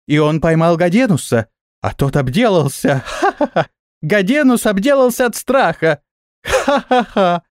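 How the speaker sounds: high-pitched mocking glee with ha-ha laughs; gleeful crying out. A narrator's reading. Little flyers mock their frightened friend, gleeful. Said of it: "радостно закричали все летуны".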